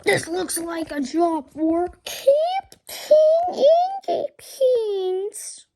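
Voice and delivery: slow, loud superhero boast; heroic declaration. Acted. Hero arriving to save the school, booming slow voice. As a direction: proclaim it like a caped hero. Hero's entrance line.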